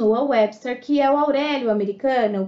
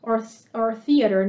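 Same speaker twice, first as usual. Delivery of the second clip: American theater. Shown as a demonstration. Teacher to Brazilian students, American theater pronunciation. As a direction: give "theater" the Americanized sound. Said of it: "uma pronúncia mais americanizada".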